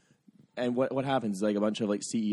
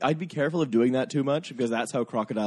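badly faked Australian accent; terrible Australian accent; 2 semitones higher, 4 dB louder than usual. Warning co-host about Crocodile Dundee, bad Australian accent. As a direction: attempt Australian and miss. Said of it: "that's a terrible Australian accent".

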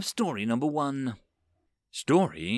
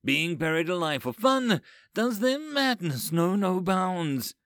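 appalled exclamation; 8 semitones higher than usual. A narrator's reading. Overseer hears of human burial game, appalled. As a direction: marvel in horror at such madness. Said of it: "swore the overseers".

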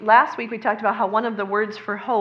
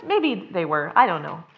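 usual speaking voice

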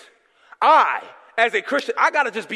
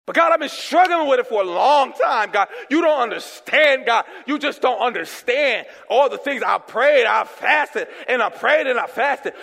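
frustrated pleading. Retold or imitated. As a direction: shout out frustrations at God. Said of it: "complaining believer to God".

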